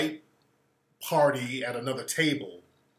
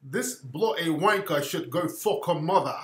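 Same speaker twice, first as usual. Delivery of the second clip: lightly put-on British accent; polite insult in an imitated British accent; mock UK accent; 2 semitones higher than usual. UK friend politely insulting the woman, mock British accent. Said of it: "that's my U K accent".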